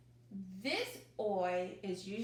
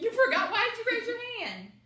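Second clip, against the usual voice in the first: mock shock; 12 semitones higher, 10 dB louder, faster than usual. Mock outrage at child forgetting.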